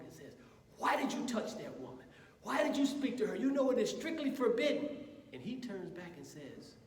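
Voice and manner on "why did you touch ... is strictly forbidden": scolding, rising louder and higher; a monk berating his companion, building anger; furious monk. Acted. Monk scolds the other monk for touching the woman, rising angry. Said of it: "The other monk is furious".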